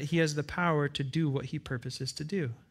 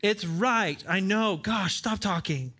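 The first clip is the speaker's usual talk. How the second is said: stubborn fool dismissing; 4 semitones higher, slower than usual. Retold or imitated. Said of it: "And it's like".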